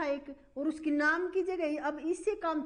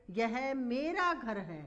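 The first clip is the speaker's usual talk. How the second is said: "यह मेरा घर है" धीमे, शब्द शब्द अलग; इशारा करते हुए धीरे पढ़ो; slow dictation; much slower than usual. Shown as a demonstration. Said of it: "संकेत किया जा रहा है". (उदाहरण दोहराती शिक्षिका, धीमी आवाज़ में)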